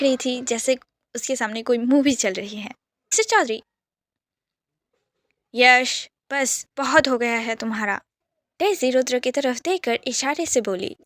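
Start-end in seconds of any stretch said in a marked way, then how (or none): 5.5-8.0 loud firm scolding; stern rebuke. Acted. Father silencing son Yash, loud and stern. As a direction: cut him off like a father.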